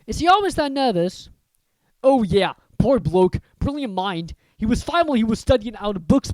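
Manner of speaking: hearty, rough-spoken giant; chatty gamekeeper, gossiping; Hagrid voice. Acted.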